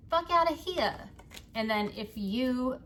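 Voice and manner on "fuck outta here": higher fuck outta here with a falling finish; emphatic mantra. Shown as a demonstration. Reader telling viewers what to say when they feel something, emphatic. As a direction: fling it off firmly.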